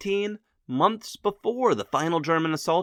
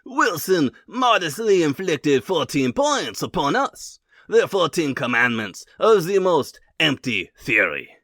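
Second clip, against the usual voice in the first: mock French accent, dry and scornful; Clemenceau French accent; 5 dB louder than usual. Quoting Clemenceau mocking Wilson, heavy French accent. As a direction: sneer it like a French statesman, in a French accent. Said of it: "in an impeccable French accent".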